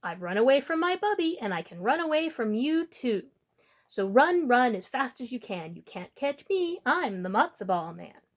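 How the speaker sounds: taunting call. Acted. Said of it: "He called back over his shoulder".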